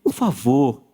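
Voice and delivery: humble begging plea; pleading traveller. Acted. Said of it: "Súplica".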